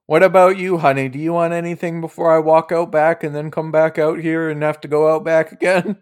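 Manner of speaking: a hint of an old hostess rattling on; old lady innkeeper. Innkeeper asking before heading out back, lightly voiced old lady.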